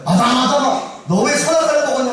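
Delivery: lightly voiced God confronting Adam; God calling Adam. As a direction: call out and demand an explanation. God calls Adam to account.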